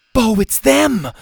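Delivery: high, loud cry of alarm; alarmed warning. A narrator's reading. Zeta warns Bo of masked people, alarmed. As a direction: raise the alarm, stretching the words.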